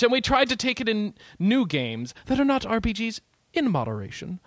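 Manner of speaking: lightly pompous editor reading; a hint of a haughty boss; stuck-up editor voice. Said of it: "poignant and stuck up".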